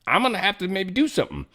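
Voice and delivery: high mock impression of a pundit; mocking Meghan McCain. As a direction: lift the voice high to mimic her warning. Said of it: "she's actually talking to the deep state".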